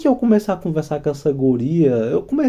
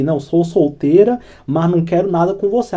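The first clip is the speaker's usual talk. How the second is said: matter-of-fact mock rejection; uninterested tone. Shown as a demonstration. Woman telling a suitor she's single, mildly dismissive. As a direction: demo a firm brush-off at normal pitch. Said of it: "eu já vi pelo tom de voz".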